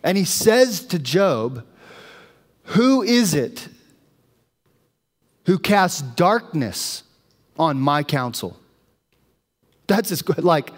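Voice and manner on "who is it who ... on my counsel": intense. Retold or imitated. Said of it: "it's intense".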